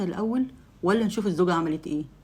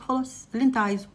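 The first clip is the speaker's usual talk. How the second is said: cold; 5 semitones higher than usual. Acted. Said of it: "بمنتهى البرود".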